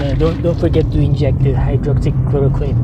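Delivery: dopey president impression, dragging out the words; McDonald Trump. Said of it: "that's the way he speaks".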